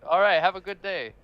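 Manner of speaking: mock cheerful soldier. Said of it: "And he was like".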